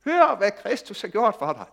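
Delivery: preacher shows how the verse can sound like a demand to the congregation, stern and pushing; demanding guilt trip. Shown as a demonstration. Loud slow reproachful reading. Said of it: "Man kan også høre det sådan".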